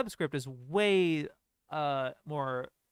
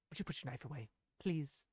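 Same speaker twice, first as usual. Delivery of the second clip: condescending imitation; 8 dB quieter, faster than usual. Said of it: "Please" is, like, so condescending".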